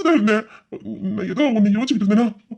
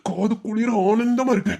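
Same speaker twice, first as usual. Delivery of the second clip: villain savouring the victim's pain, drawn out; cruel gloating. Acted. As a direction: gloat with relish after an evil laugh. Villain gloats over his victim's suffering.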